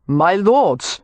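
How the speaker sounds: overly patient, calm appeal; relaxed peacemaker placating two drunk lords; excessively reasonable. Acted. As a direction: soothe the brawlers with exaggerated reason. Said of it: "in an excessively reasonable tone".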